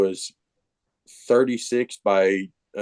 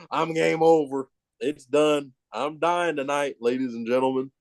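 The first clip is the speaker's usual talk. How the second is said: mock doom; 3 semitones higher than usual. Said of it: "I'm like".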